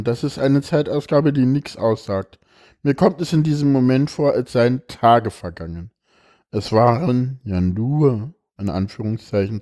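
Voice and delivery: expressive reading aloud of a personal text; emotional reading. Acted. Reads a moving text aloud.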